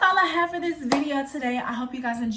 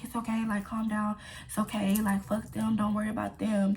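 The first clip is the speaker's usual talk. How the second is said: retold comforting; 2 semitones lower, 5 dB quieter than usual. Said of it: "They were just like".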